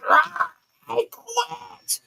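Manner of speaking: high, strained zombie voice; zombie scream. Retold or imitated. Wendy giving up, zombie scream. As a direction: screech the words like a zombie. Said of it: "She was just screaming".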